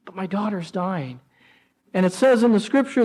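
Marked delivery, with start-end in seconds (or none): 0.0-1.2 desperate father. Acted. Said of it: "relate to that emotion".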